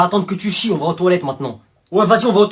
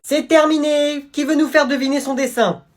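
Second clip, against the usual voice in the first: higher, sing-out classroom announcement; teacher calling out; 5 semitones higher than usual. Acted. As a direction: address the whole class, pitched up. Teacher calls the class together.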